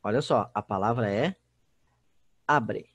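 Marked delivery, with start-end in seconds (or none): 2.5-2.9 "abre" stressed on the opening A, falling away; stress on first syllable. Shown as a demonstration. Teacher showing students the tonic syllable, "abre" stressed on A. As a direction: say "abre" with the weight on A, weak "bre". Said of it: "Sílaba tônica da palavra abre é A".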